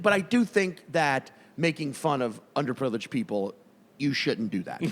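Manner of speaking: put-on assertive LA accent. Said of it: "you only get assertive when".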